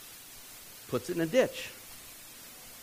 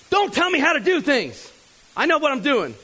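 put-on higher, louder, snapping back like a cocky kid; know-it-all kid snapping; 8 semitones higher, 4 dB louder than usual. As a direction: brush off the warning, sure you know best. Cocky roadie snaps back.

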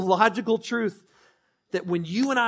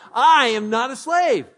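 much louder and slow; loud declaration; 6 semitones higher, 10 dB louder, slower than usual. Shown as a demonstration. Pastor leading the church in a loud proclamation. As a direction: proclaim it boldly. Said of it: "I should say it myself".

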